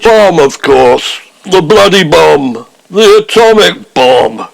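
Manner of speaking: slow, exasperated Prime Minister spelling it out; a hint of Macmillan, dragging out the bomb; Harold Macmillan. Prime Minister explaining the bomb to Hancock, slowly. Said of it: "I'm the real Harold Macmillan".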